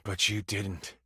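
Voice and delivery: low, cold tiger villain accusing the hero; villain monologue. Acted. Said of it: "a monologue for him".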